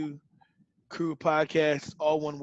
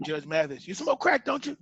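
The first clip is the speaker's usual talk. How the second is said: mock judge questioning. Pretend TV judge grilling a guest, mock accusing. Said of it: "And then I'd be like".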